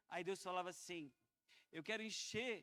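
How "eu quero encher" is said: voicing God, climbing to a high, loud peak; building fervent proclamation. Preacher relays God's promise to the church, rising fervently. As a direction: let the pitch and force build to the last word.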